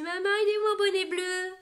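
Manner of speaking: high, bright child voice imitating her daughter; mock child voice calling to mum; daughter's voice. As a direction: play the little girl asking for her hat. Daughter quoted asking for her hat.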